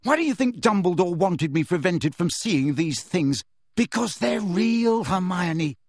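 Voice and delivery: high, impassioned argument; heated, insistent outburst; angry tirade. Acted. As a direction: rant in exasperation, driving the point home. Harry's angry tirade at friends.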